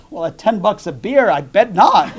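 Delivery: bear's line breaking into a laugh; punchline with laugh. Retold or imitated. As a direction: deliver the punchline, laughing at the end. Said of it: "and the bear goes".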